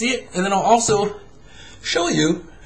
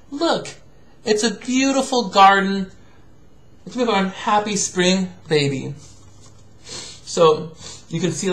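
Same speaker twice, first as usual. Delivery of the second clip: gentle picture-book reading voice; reading to a child. Acted. Father reading a picture book to his absent daughter, gentle.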